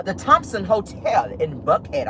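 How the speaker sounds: slow, fancy way of saying "the Thompson Hotel in Buckhead". Shown as a demonstration. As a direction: savor each word like it's upscale. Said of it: "I gotta say it like that 'cause it's very fancy".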